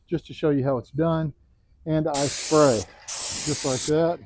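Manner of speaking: muffled voice behind a face mask; talking through a mask. Real, not acted. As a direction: speak through a respirator mask. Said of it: "I'm gonna try to talk with this mask on".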